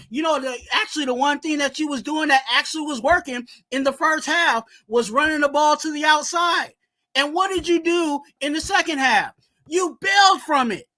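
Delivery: angry fan breaking down the game; heated rant. Real, not acted. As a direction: vent at the coach for bailing on the run. Ranting about play calls.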